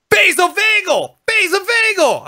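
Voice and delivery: mock urgent doctor yell; doctor's urgent call. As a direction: shout it out like an alarm. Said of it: "he just goes".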